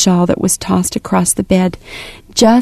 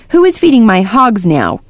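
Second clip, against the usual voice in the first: put-on demanding old man; 2 semitones higher than usual. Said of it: "he demanded".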